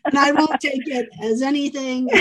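laughing as she reassures her; laughing reassurance. Real, not acted. Reassuring her guest, laughing warmly as she speaks. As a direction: chuckle through the promise.

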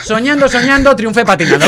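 loud sing-song mock recital; mock poem reading. Real, not acted. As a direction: declaim the title like a silly poem. Mocking the title.

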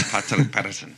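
put-on mangle the name in a poor Irish accent; bad Irish accent. Mocking the Irish name in a bad Irish accent. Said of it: "That was a horrible accent".

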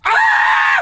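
slow mock shriek at the rat; retold startled scream. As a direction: imitate her startled yelp. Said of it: "pues dijo". (grito fingido de susto)

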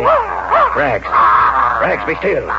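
loud sharp call to the dog; commanding the dog. Acted. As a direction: bark the order to silence the dog. Man calls his dog sharply.

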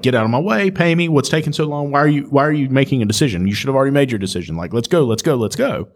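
mock big-city impatience, pushing people along; rushed, high-strung. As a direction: hurry the customer through like a stressed city worker. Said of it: "they're moving super fast".

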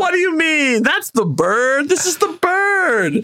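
oversell it like a pushy salesman; Justin Hammer. Retold or imitated. Hammer insisting to Vanko it is the bird, high and wheedling. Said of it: "Justin says".

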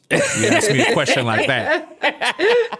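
high, slow, laughing mock threat; mock angry old man. Imitating a rally-goer scolding Santos, laughing. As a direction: scold like a grumpy Southern dad.

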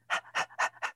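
quick dog-like panting. Shown as a demonstration. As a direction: pant fast like a dog. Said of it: "pant again".

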